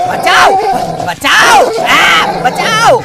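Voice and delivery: cry for help. Acted. Bitten thief cries for help.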